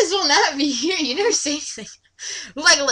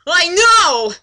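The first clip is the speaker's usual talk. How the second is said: mock exasperated cry; 5 semitones higher, 7 dB louder than usual. Legolas snaps worried.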